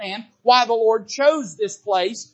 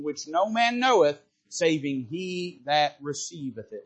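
scripture reading; 2 semitones lower than usual. Acted. Pastor reading Revelation to congregation, measured and solemn. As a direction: read the Bible passage solemnly.

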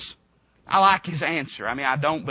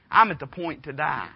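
whiner. Acted. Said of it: "how big of a whiner you are".

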